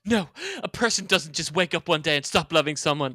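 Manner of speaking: earnest soap-opera lover; dramatic American character. Acted. Student pleading with a departing lover, dramatic. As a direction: deliver it as hammed-up romantic drama. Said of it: "I really just went into character there".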